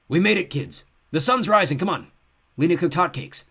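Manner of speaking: cheery loud call up the stairs; fake grandpa. A narrator's reading. Monster posing as Grandpa calling the kids down, cheery. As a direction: lure them down with false cheer.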